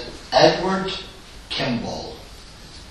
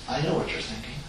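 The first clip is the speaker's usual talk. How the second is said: quiet; 4 semitones lower, 12 dB quieter than usual. Acted. Jesus speaks softly.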